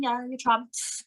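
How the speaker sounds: high, slow, lofty put-down of the crowd; smug heel character. Retold or imitated. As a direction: sneer at the fans as if you're above them. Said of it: "it's like my character".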